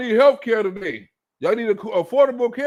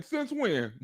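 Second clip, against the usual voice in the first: deadpan quiet; 9 dB quieter than usual. Real, not acted. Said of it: "repeated punchline".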